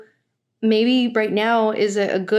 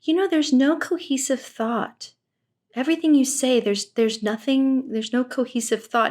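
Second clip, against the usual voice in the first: higher, lofty guru voice; imitating Teal; 4 semitones higher than usual. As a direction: mimic her condescending verdict. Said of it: "she turns to him and she says".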